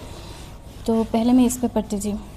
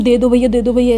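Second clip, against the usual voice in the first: mock pleading; 6 dB louder than usual. Shown as a demonstration. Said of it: "ऐसे तो नहीं किया".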